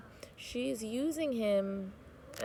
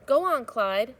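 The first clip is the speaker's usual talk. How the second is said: put-on old woman urging; 4 semitones higher, 7 dB louder, slower than usual.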